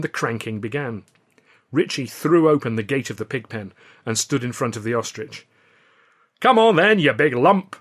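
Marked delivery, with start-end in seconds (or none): 6.4-7.8 high, loud jeering; taunting shout. A narrator's reading. Billy taunting the ostrich, loud shout. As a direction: goad the bird loudly. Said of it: "he shouted".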